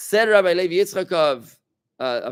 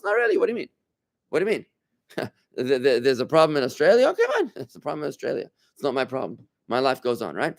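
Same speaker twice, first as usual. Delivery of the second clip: mock shrug; faster than usual. Teacher voicing the nations, with a dismissive mock shrug. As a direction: shrug it off like it's nobody's business.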